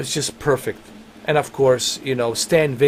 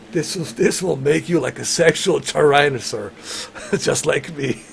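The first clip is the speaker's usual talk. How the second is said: quoting Ventura; 2 semitones higher than usual. Retold or imitated. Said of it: "he says".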